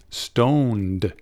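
"stoned" slowly, with the final D sounded; clear final D. Shown as a demonstration. Teacher corrects student who heard stone, "stoned" with a clear D. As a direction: say "stoned" drawn out, ending on a D. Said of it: "con D".

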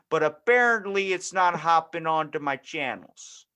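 lightly voiced cheery old dad; clueless dad. Clueless dad joking with the support agent, light folksy voice. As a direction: play a pleased clueless dad. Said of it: "that dad that doesn't actually know".

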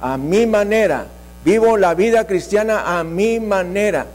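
ordinary talk

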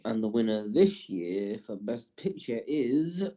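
awards announcer. Acted. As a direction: build suspense, then announce the winner. Announcing Best Picture winner.

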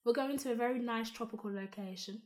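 posh delivery. Real, not acted. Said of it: "Why you say it like that?".

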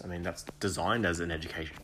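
speaking through hiccups; words broken by hiccups. Real, not acted. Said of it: "got the hiccups".

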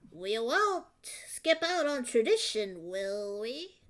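put-on cynical old woman voice. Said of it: "she could have sounded like this".

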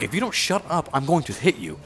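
high-pitched mock threat; imperious scolding. Queen scolds a guest for speaking up, mock imperious.

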